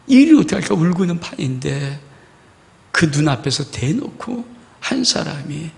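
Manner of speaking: ordinary delivery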